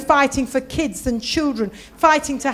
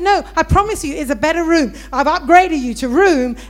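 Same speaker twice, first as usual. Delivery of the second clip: quick, raised, imitated clerk's assurance; insistent receptionist; 3 semitones higher, 6 dB louder than usual. Receptionist promising guest a better room, insistent. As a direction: reassure the guest with emphatic insistence.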